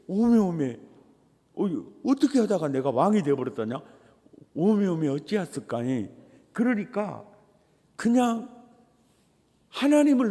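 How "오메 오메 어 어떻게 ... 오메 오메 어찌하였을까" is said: Jeolla dialect. Retold or imitated. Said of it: "딱 전라도 말로".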